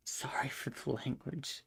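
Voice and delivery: sheepish whisper; whispered apology. Real, not acted. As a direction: breathe it out as an aside. Whispered apology after cursing.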